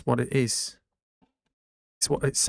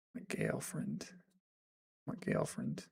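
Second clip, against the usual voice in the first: whispered, much lower mock British practice of girlfriend; 11 semitones lower, 16 dB quieter than usual. Shown as a demonstration. Streamer practising the British word to himself. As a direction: mouth the British girlfriend under breath. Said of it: "how to say girlfriend in British accent".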